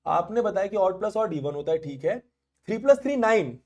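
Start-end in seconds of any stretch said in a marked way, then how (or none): 2.7-3.6 mock wrong answer. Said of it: "मैं मजाक कर रहा हूँ".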